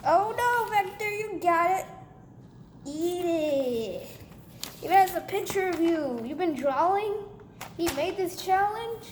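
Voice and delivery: high, loud startled gasp then chatter; surprised excited reaction. Acted. Reacting to toy's paper.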